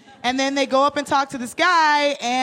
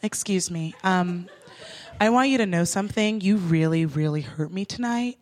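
lower, softer measured lecture; calm speech; 5 semitones lower, 3 dB quieter than usual. Retold or imitated. Speaking to the rude cab driver, calm earnest speech. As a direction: deliver it gently like an earnest talk show lesson. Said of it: "very chill words".

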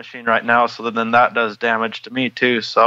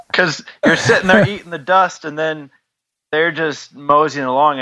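laughing; 5 semitones higher than usual. Real, not acted. Laughing while telling.

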